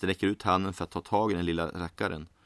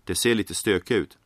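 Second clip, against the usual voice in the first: a barkeep laying down the law, quick and firm; gruff bartender. Acted. Bartender warns the man about his creatures, gruffly. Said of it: "säger bartendern barskt".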